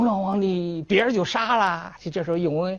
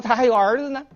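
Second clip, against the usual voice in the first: indignant retort; 8 semitones higher, 4 dB louder, faster than usual. Acted. Scholar retorts to the emperor.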